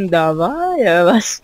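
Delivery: whispering. Real, not acted. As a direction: breathe it as a teasing aside. Echoes her partner teasingly.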